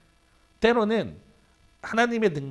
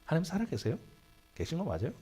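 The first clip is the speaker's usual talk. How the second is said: "하나님" said softer, as if through tears; mock weeping like a deaconess; 6 dB quieter than usual. Shown as a demonstration. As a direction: imitate a deaconess crying in prayer. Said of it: "권사님 우는 것처럼 우는 거야". (권사님처럼 우는 흉내로 "하나님 살아계세요?")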